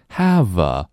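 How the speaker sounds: "Have a" joined, v running into a; linked have a. Shown as a demonstration. Teacher showing how "have" links into "a". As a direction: blend "Have a" together. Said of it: "把have和a v连读".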